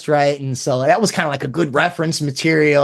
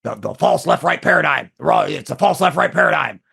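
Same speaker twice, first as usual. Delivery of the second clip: lightly mimicked gruff talk-show host; a hint of a gruff Texan ranter's catchphrase; Alex Jones impression. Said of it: "things he used to talk about".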